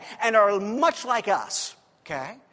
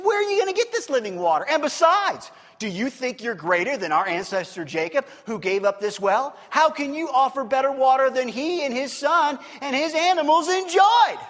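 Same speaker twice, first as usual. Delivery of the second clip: loud, indignant challenge, climbing high at the end; picking a fight; 3 semitones higher, 5 dB louder than usual. Retold or imitated. Woman challenging Jesus about ancestor Jacob, combative. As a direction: argue it hard, building to an outraged finish. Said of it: "she continues picking a fight".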